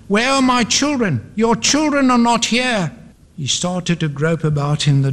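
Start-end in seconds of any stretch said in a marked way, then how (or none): 0.1-2.9 raised, dramatic story-reading cry. A narrator's reading. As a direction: cry out in mounting distress. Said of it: "Again he cried".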